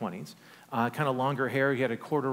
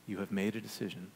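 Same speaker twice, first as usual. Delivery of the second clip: broken-hearted God; 4 semitones lower, 7 dB quieter, faster than usual. Retold or imitated. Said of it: "with a broken heart and tears in his eyes".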